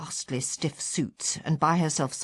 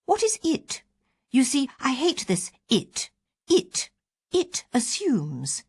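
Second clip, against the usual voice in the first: huffy complaint; 7 semitones higher than usual. Retold or imitated. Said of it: "I said".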